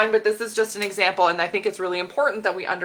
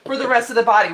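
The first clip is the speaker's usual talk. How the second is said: high, louder, cheerful cartoon voice; voicing fat cells; 7 semitones higher, 4 dB louder, faster than usual. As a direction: play the fat cells as giddy partiers. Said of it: "that's like".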